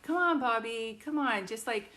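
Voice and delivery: put-on pleading with an old friend who won't speak on the phone; urgent pleading. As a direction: coax him to just answer. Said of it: "And I'm like".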